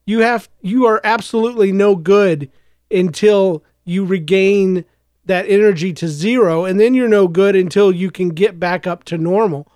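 hoarse from a night of coughing; rough, worn-out hoarse voice. Real, not acted. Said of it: "probably in my kind of hoarse voice".

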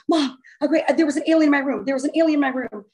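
mild mock panic, breathless urgency; frantic call to mom, lightly acted; retold hyperventilating. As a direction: imitate panicked blurting on the phone. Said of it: "I'm, like, hyperventilating".

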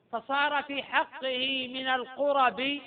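slow chanted verse line, rising at the end; poem recitation. Shown as a demonstration. Teacher chanting the verse to students, slow and measured. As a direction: draw out فصار في حقه من القرب in a slow recitation chant. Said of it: "قال في المراقي".

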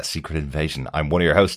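ordinary delivery

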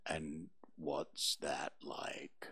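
low, slow, soft donkey voice; gloomy Eeyore. Acted. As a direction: mope through it like a gloomy old donkey.

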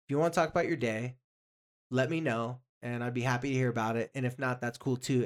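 soft, easy-going parent offer; a calm, relaxed parent voice. Shown as a demonstration. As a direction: say it gently and leave it open. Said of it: "we'll use that example".

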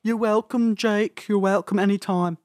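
high Liverpool impression; mock Beatle voice. Answering Jake in Beatle voice.

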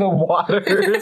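slow, drawn-out, laughing proclamation; playfully epic, half laughing; mock grandeur. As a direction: stretch it out like an epic tale. Grandly riffing on belly waters.

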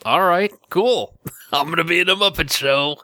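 high, eager star agreeing; hammed-up eager star; mock excited celebrity. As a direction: gush like a thrilled guest star.

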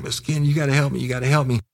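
high, pleading imitation; mock crying plea. Crying kid begging Ken to help him, mock tearful. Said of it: "He was cr-, crying".

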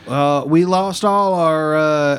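Southern stoner voice. Acted. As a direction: drag it out like a laid-back stoner from the South. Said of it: "the Southern Stoner voice".

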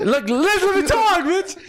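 high, slow put-on footballer voice; drawn-out mock pro athlete voice; Kevin De Bruyne voice. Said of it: "sound like Kevin De Bruyne".

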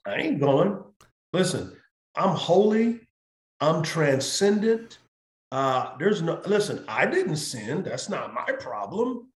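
a lightly voiced Jesus, huffy and refusing; mock refusal. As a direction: play a haughty Jesus brushing it off.

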